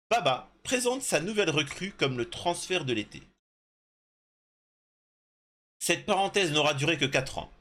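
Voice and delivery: article lu à voix haute. Real, not acted. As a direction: lecture posée façon voix off de reportage. Reads an article aloud. (lecture de reportage)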